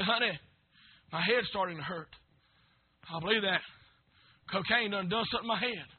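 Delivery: hushed plea for wife's headache; quiet prayer. Retold or imitated. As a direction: murmur it under the breath. Retold quiet prayer while driving.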